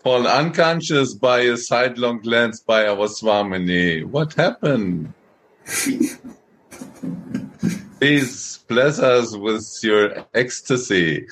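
teasing mock concern, slowing into a plea; sarcastic. Devotee teasing Cupid felled by Swamini's glance, sarcastic. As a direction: poke fun, drawing out the question and request. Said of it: "I feel it's a little sometimes sarcastic".

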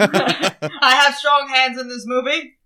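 slow, laughing mock-proud line; the speaker's voice bragging while laughing. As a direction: say it slowly through laughter.

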